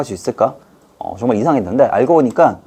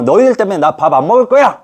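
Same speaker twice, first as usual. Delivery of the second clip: higher, louder petulant complaint; sulking king; 6 semitones higher, 4 dB louder than usual. Acted. King blaming ministers and refusing food. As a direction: blame them like a sulking child. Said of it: "이렇게 하면".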